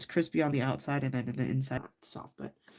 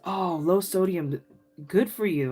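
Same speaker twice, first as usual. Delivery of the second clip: a hint of an older Asian auntie's accent; older Asian lady's accent; 3 semitones higher, 4 dB louder than usual. Older Asian lady advising a shopper on Spam, lightly imitated accent. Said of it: "with her accent".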